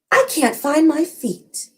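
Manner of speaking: slow, eerie and calm; smiling ghost. Acted. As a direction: smile through it, slow and sinister. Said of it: "she smiles and she says".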